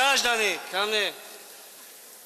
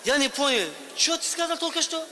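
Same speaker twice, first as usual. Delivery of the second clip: shouting; 4 semitones higher than usual. Acted. Officer and migrant shouting.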